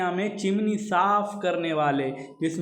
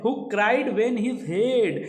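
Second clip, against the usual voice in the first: each word read out slowly; measured recitation of verse; slow poem reading; 3 semitones higher, much slower than usual. Shown as a demonstration. Teacher reads poem line slowly.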